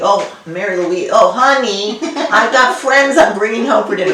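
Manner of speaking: put-on father's German accent, inviting guests home. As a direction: call out warmly like a German immigrant dad. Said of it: "in his fabulous German accent".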